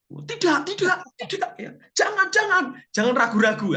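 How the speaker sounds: playfully faking resistance; mock half-hearted refusal. Pastor mocking a tempted man's weak refusal, coy and high. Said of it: "kalau Pak Roni yang digoda mungkin gimana ya".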